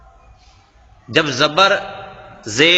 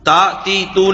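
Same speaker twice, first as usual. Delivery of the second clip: wrong, rushed; 2 semitones higher than usual. Shown as a demonstration. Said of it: "جلدی جلدی نہیں بولنا".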